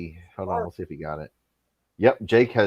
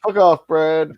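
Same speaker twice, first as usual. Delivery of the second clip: higher-pitched impression of a Mississippi man; lightly hammed-up, higher voice; Jake Hudson; 4 semitones higher, 4 dB louder, slower than usual. Telling Brad off in a put-on Mississippi voice. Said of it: "I can do the Jake Hudson".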